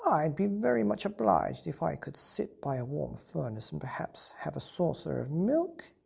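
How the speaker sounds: a shy cat asking for milk in a whisper. Acted. Cat's polite reply whispered.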